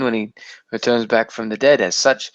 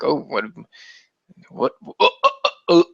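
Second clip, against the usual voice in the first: mock overexcitement; 2 semitones higher than usual. Co-host hearing of the remake, hammed-up excitement. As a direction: act overcome by the news.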